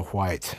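"white" said with a breathy h before the w; exaggerated WH. Shown as a demonstration. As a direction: lean on the WH in "white", like hwite. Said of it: "I have to say it like that".

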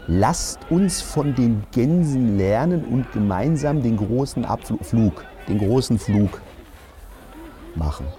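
slow, grand trailer narration; hammed-up narrator of a team motivation film; solemn movie voiceover. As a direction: intone like an epic motivational film.

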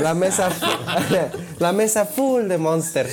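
slow words broken by laughter; laughing. Real, not acted. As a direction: laugh through the line. Repeating while laughing.

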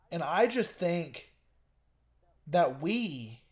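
trash-talk a rival like a wrestling heel; wrestling promo. Pretend. Podcast co-host calling out his friend, as a building mock wrestling promo. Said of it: "you gotta cut a promo back at me".

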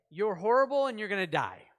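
loud, blunt doom message; a prophet's loud condemnation; harsh proclamation. Acted. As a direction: bark the verdict at the city. Jonah's harsh message voiced.

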